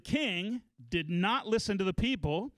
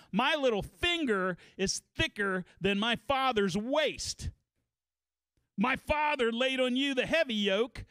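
put-on raised pitch, swaggering boast of cocky young men; mock hothead threat; 5 semitones higher than usual. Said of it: "advised him to react with anger and threats".

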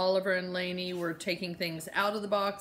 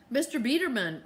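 raised pitch, strained politeness; Mama pleading with the landlord, pitch raised; voice up an octave; 5 semitones higher than usual. Acted. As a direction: lift the voice high and tight. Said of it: "her voice going up an octave".

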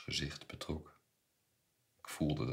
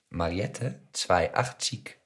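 put-on raised-voice call to the shop girl; 4 semitones higher, 9 dB louder, much slower than usual. A narrator's reading. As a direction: call the order out loudly. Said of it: "riep Mossel". (luid roepen)

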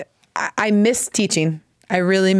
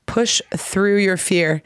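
slow repeated phrase; slower than usual. Shown as a demonstration. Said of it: "in English we say".

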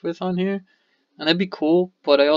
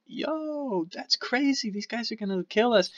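panicked aside; 6 semitones higher, 7 dB quieter than usual. Retold or imitated.

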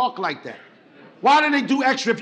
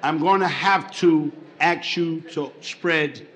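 doctor's order; 10 semitones lower, 4 dB quieter, slower than usual. Retold or imitated. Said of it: "So he said".

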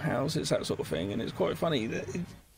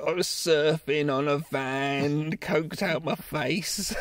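slow, lower mock confession; drawn-out confession; 4 semitones lower, slower than usual. Ringing Alice about hurt legs, drawling confession. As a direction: stretch it out like a wrecked reveller. Imagined hungover friend's Monday phone call.

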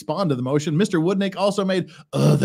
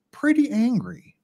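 pretty angry, high and slow with mock outrage; high, slow, theatrical mock anger; 8 semitones higher, slower than usual. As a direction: ham up the fake fury, drawing it out. Mock-reading the opposing filing.

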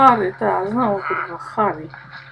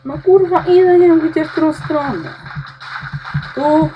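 loud, much higher exasperated shout; frustrated yell; 8 semitones higher, 7 dB louder than usual. Real, not acted. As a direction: yell it out, fed up and lost. Lost in maze, frustrated. (głośny, sfrustrowany krzyk)

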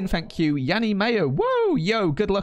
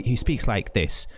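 imitated posh Southern English accent; slower than usual. Imitating a posh YouTuber from Southern England, posh accent. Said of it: "He speaks very posh".

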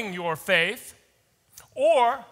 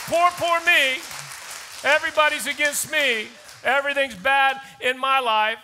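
mock victim whine; 3 semitones higher than usual. Mocking a self-pitying victim.

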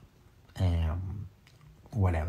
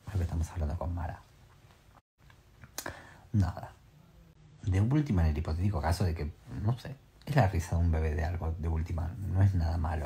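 normal talking voice

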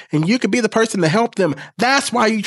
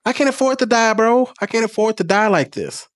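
getting emotional; 5 semitones higher than usual. Real, not acted. Admitting to viewers his fear of dying, emotional and pitched up. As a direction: voice rising higher as emotion takes over. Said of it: "I'm getting emotional".

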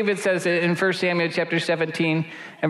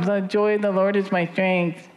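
half-hearted. Shown as a demonstration. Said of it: "with some intensity".

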